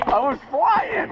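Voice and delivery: excited shouting. Real, not acted. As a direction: yell with thrill on the way down. Racing down the toboggan run.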